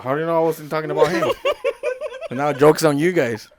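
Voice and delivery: laughing. Real, not acted. Laughing while talking.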